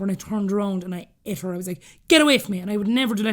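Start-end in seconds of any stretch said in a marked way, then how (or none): 2.1-2.6 retold snap. Lashing out at stranger touching jumper.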